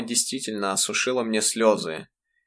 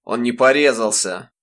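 displeased; 5 dB louder than usual. Acted. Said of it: "недовольно произнёс отец".

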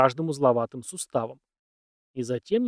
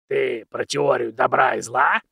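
put-on very old man; 5 dB louder, slower than usual.

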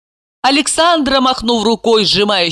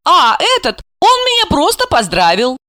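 high, light naive voice; naive girl; 10 semitones higher than usual. Acted. Asya to Gorokhov, high and naive. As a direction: say it like a guileless girl.

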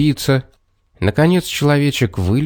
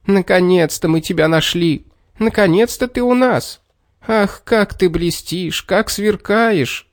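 admiring murmur; 7 semitones higher than usual. A narrator's reading. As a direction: linger over each word in awe. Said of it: "любовался золотым талером и всё приговаривал".

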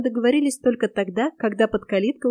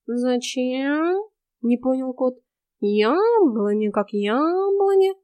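lazy cat voice, lightly voiced; snooty bored cat; 3 semitones higher, much slower than usual. Cat voice in the story. (ленивый кот)

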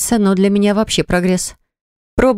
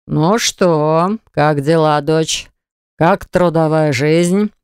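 smirking; much slower than usual. Acted. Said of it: "С усмешкой интересуется отец".

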